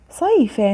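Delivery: صيف read high with an added -in ending; tanween kasr. Shown as a demonstration. Teacher reading out the word list, tanween kasr on صيف. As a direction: sound out صيف as "sayfin". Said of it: "كسر أيضًا".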